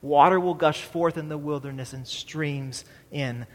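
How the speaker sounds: measured reading from Isaiah, unhurried; scripture reading. Acted. Reads Isaiah passage aloud.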